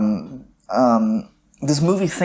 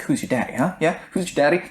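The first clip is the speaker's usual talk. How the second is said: psychological taunt; 2 semitones higher than usual. Shown as a demonstration. Co-host demonstrating how to get into an opponent's head, taunting. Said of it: "gets into your opponent's head and really psychologically manipulates".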